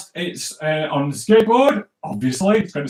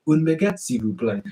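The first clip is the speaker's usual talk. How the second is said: French phrase; 3 semitones lower, 3 dB quieter than usual. Shown as a demonstration. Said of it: "Say it with me".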